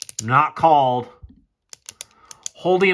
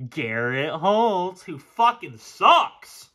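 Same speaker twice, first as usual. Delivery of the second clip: slow scorn; much slower than usual. Real, not acted. Slow scornful verdict on player.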